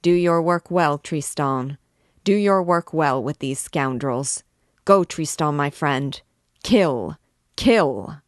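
loud ringing commands building to a shout; furious king ordering the slaughter; clarion outburst. Acted. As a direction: ring it out like a trumpet call. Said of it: "his voice flashed forth like a clarion".

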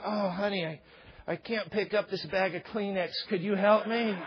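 lightly put-on damsel in distress; a hint of a coy helpless plea; mock helpless wife. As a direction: pretend you can't lift a thing. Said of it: "play it up too".

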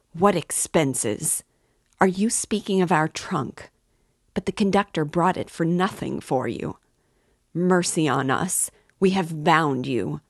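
a mother lashing out at an insult to her family; furious mother. Acted. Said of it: "Pulcheria Alexandrovna was furious".

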